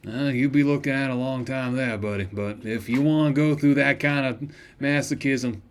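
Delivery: gruff shopkeeper voice. Acted. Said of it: "doing this voice is shredding my vocal cords".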